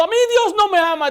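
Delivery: imitated anguished wail on "Dios"; despairing cry. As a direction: cry it out like a broken woman. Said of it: "decía ella".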